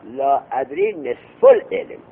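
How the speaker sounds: لا ادری نصف العلم said slowly, pitch up. Shown as a demonstration. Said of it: "تو اصلا این عبارت غلط گفتی".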